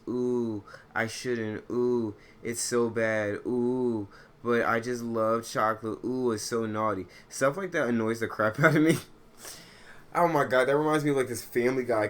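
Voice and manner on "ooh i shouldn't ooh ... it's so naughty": mock coworker. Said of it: "they do this whole song and dance".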